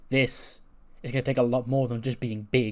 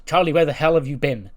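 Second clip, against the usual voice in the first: mock yell; 4 semitones higher, 8 dB louder than usual. The speaker snaps at arriving Charlotte.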